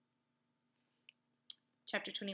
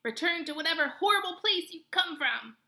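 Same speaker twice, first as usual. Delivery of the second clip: high panicked cry; 8 semitones higher, 5 dB louder than usual. Acted. Frightened animal retorts.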